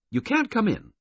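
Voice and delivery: high, firm female voice, blunt; blunt woman. A narrator's reading. Governess barring the horse car door, blunt and firm. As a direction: bar the door with a blunt refusal. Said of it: "she said bluntly".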